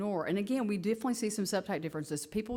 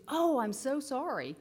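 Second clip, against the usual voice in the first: sweet apology; 7 semitones higher, slower than usual. Retold or imitated. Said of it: "And she goes".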